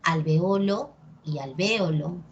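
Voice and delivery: alveOlo, then alVÉolo, each stress leaned on; two accepted stresses. Shown as a demonstration. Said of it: "depende de ti cómo lo quieras decir".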